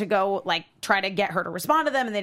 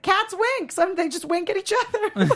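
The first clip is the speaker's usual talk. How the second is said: a higher, lightly voiced Linda, breezy and improvising; Linda's voice; 7 semitones higher than usual. Linda covering for Louise to the teacher, higher playful voice. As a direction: toss off a silly excuse in a raised, playful voice. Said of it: "And Linda's like".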